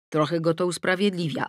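ordinary delivery, nothing marked

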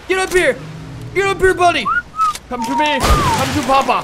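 high, loud call to his pet. Real, not acted. Player calling his pet to come to him, loud. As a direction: call the creature over urgently.

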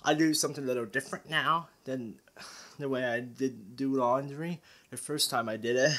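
breathless, rushed talking; out of breath. Real, not acted. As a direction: talk while catching your breath. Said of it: "I'm out of breath".

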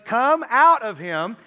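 loud, slow, weighty order; drawn-out commanding call; forceful command. Acted. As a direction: cast it out with full authority. Jesus acted commanding a demon out.

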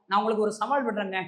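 ordinary talk

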